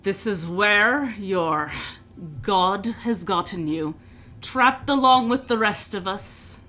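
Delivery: scoffing orc. Acted. Orc prisoner taunts a captured priest from the next cell, scoffing. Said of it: "one of the orcs kinda scoff and go".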